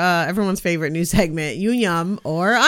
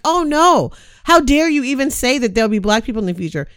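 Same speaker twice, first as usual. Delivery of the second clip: higher, put-upon mock outrage; mock-outraged snowflake; 5 semitones higher, 3 dB louder than usual. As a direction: play an offended snowflake, hammed-up. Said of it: "epitome of a snowflake to be like".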